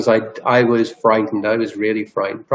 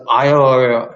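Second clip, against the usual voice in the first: louder imitation of broken, stuck speech; louder garbled speech; 4 dB louder, faster than usual. Imitating her distress as words fail, as louder garbled speech. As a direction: push out the stuck "oh" sounds harder. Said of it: "And she goes".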